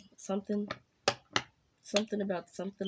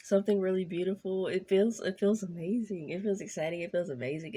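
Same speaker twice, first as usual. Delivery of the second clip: excited. Real, not acted. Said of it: "I feel this excitement".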